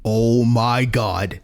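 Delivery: slow, drawn-out cry of shock. Real, not acted. Streamer seeing the second body, shocked cry. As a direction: react in disbelief. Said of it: "shocked reaction".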